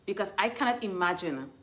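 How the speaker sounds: talking around a retainer; slightly lisped retainer speech; wearing a retainer. Real, not acted. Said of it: "I'm wearing my retainers".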